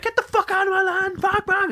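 high, far cartoon voice swearing; Morty voice. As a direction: squeal the curses like a frantic cartoon kid. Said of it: "Morty voice guy".

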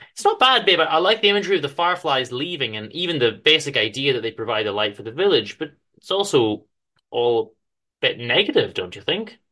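fond wife, mildly critical; lightly voiced wife. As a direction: coax him kindly as his wife. Wife Penny gently critiques.

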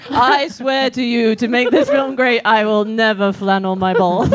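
put-on solemn oath in an Irish accent. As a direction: swear it like a Dublin boxer. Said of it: "That was a good Irish accent".

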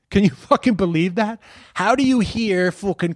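incredulous. Real, not acted. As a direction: rant as if you can't believe it. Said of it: "I just couldn't fucking believe it".

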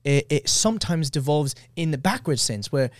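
attempted British accent. Shown as a demonstration. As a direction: try on a wobbly British accent. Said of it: "do my British accent".

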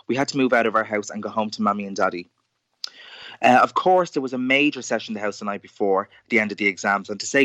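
lively acted story reading; storytelling voice. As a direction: read it like a performed tale. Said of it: "your storytelling voice".

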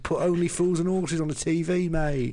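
high-pitched loutish British tourist; high, sweary holidaymaker rant; Brit abroad in Spain. Acted. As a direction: play a boozy Brit demanding home comforts in Spain. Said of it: "You're forgetting he's got a West Country accent".

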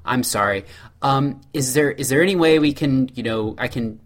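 mock-polite customer asking a favor; polite customer complaint. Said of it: "when the server comes back, you say".

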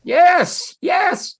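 a loud, high burst of emphatic yes. Real, not acted. Telling Toby who drove him to the airport, loud emphatic yes. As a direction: hit it hard, like you've just dropped the big reveal. Confirming the Bill Clinton reveal.

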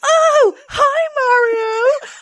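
high, loud cheery "hi Mario"; loud greeting. Retold or imitated. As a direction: call out much too loud and bright. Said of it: "She goes".

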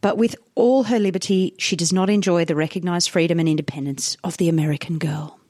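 put-on measured old-newspaper editorial reading; reading aloud. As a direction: read the article out with deliberate phrasing. Reads old article aloud.

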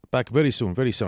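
imitated Romanian accent. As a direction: promise it in a put-on Romanian accent. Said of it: "is that a Romanian accent".

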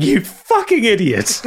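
high, slow jeering insult; mocking insult. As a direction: slap him down with scorn. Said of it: "starts laughing".

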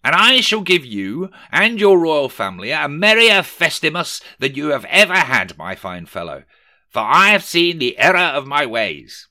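high and loud grandeur; magnanimous Scrooge. A narrator's reading. Scrooge promising his clerk a merrier festival, grand and loud.

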